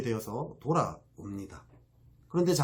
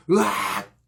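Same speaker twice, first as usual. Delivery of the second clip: frustrated yell; 6 semitones higher, 6 dB louder, much slower than usual. Acted. Frustration bursts after the rant.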